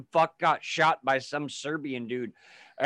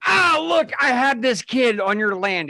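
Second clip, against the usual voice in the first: mock high announcing voice; 8 semitones higher, 7 dB louder than usual. Friend mocks the English presenting a prince, hammed-up high voice. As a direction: voice pitched higher and louder, a hammed-up herald.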